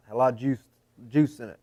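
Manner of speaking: talking with a numb tongue; words slurred by a tingling tongue. Real, not acted. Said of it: "You're talking funny".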